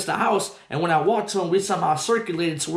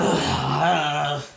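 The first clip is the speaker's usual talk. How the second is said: winded exhale; 5 semitones lower than usual. Retold or imitated. Acting out running down.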